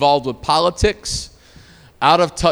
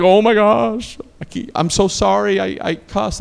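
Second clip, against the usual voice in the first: higher-pitched mock embarrassed apology; flustered apology; 5 semitones higher, 3 dB louder than usual. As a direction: imitate someone mortified and apologizing. Acting out flustered passengers apologizing for cussing.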